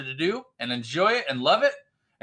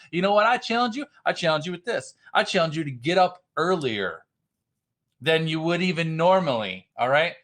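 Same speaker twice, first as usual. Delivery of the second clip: fired-up yelling. Real, not acted. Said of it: "I'm already yelling at everybody".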